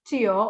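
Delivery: CHIO low, dipping then rising to an open o; open-mouthed CHIO. Shown as a demonstration. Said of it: "Open your mouth".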